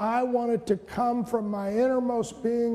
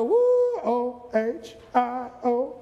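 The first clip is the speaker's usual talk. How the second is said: hammed-up whoop, much higher and louder, then slow spelled chant; mock a crowd-pleasing outburst; showy fake excitement; 4 semitones higher, 3 dB louder, much slower than usual. Shown as a demonstration. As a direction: put on an empty show of emotion. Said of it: "I can look like I'm doing a whole lot".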